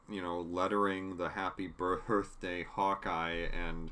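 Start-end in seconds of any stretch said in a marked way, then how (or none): 1.7-2.6 "birthday" with an extra breathed H in it. Retold or imitated. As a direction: stumble an added H sound into "birthday". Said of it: "He had an extra H in birthday".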